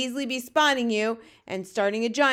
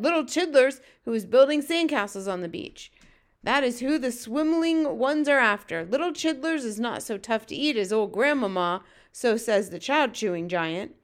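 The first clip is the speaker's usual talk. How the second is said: raised friendly giant explaining; lightly voiced BFG; 3 semitones higher, 5 dB louder than usual. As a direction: explain it emphatically as a hint of the BFG.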